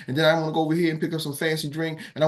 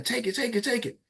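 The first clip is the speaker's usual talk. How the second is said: higher, softer chant; urging neighbours; 10 semitones higher, 4 dB quieter than usual. Retold or imitated. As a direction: coax her to grab it. People beside urging.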